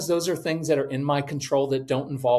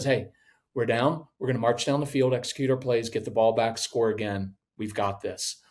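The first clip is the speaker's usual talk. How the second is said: calm leader; 4 semitones lower than usual. Retold or imitated. Kneeling quarterback calming his team, steady.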